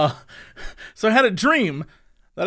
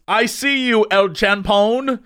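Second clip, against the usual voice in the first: boss line; slower than usual. Retold or imitated. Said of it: "the line read was".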